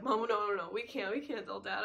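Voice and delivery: mildly panicked, rapid protest; freaking out. Retold or imitated. Teen begging mom not to tell Dad, mildly freaking out. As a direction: act out a touch of panic. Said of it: "And I'm freaking out".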